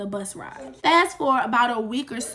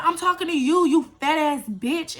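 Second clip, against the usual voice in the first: higher-pitched mock confrontation, slowing on the insult; retold angry insult; 4 semitones higher than usual. Boy cussing out the wrong girl on the bus, angry. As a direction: imitate him turning on you.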